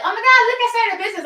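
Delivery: imitating a thrilled beginner; mock excitement. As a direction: play the overexcited new owner. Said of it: "And they're like".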